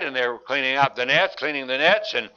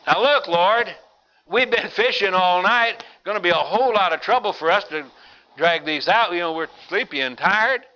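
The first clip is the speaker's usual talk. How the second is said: weary protest; 4 semitones higher than usual. Acted. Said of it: "Peter says".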